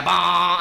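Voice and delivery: drawn-out motor "bah"; imitated motor noise. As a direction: mimic a little motor running. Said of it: "I have my little motor".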